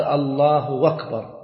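"الله أكبر" run together as "Allaahu-wakbar"; slow "الله أكبر" with a w gliding in for the hamza of "أكبر"; hamza turned waw. Shown as a demonstration. Teacher showing a common variant, hamza softened to waw. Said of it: "لا يحقق الهمزة".

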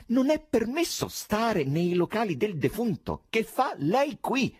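high, loud, slow rude demand; rude chairman. A narrator's reading. Chairman confronts the intruder, rude and high-pitched. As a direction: bluntly order him out. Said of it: "alquanto villano".

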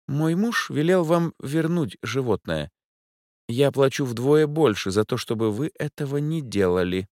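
a capricious rich lady rolling her eyes; Angela's voice. A narrator's reading. A bored rich client explains why she's out at night.

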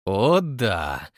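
low smug grin; smirking. Acted. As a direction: relish it slyly. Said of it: "ухмыльнулся Фрэнк". (самодовольно ухмыляясь)

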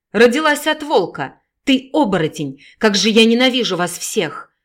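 loud, hateful mother; hateful shout. Acted. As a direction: scream hatred at her. Mother screams hatred at daughter. (мать с ненавистью кричит)

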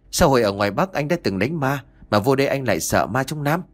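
mock teasing. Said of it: "che miệng cười rồi cắt cớ hỏi".

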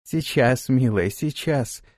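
tender and soothing. Acted. Fransi soothing the exhausted Rada, tender and slow. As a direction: soothe her gently, take your time. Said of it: "нежно и успокаивающе проговорила Франси".

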